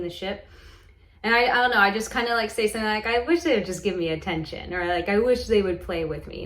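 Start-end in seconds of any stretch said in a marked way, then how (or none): 3.1-4.7 lightly playful wish; a touch of childlike pleading, retold; mildly playful retelling. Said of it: "say it in this playful manner". 5.1-6.4 lightly playful wish; mildly playful, childlike request. Retold or imitated. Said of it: "say it in this playful manner".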